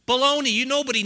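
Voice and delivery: preacher scoffing at those who say settle down; loud rebuttal. Real, not acted. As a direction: knock the idea down hard. Preacher rejects the naysayers.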